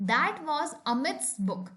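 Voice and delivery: very slow, each word set apart; slow example sentence. Shown as a demonstration. Teacher reading an example to the class, very slow. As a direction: read it out word by word. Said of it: "कुछ और examples देखते हैं".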